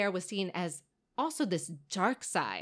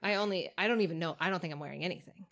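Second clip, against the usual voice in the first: whispering; 3 semitones lower, much faster than usual. Real, not acted. Aside to co-host.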